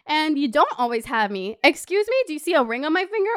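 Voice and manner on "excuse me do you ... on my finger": sassy. Retold or imitated. Mock sassy quote to partner.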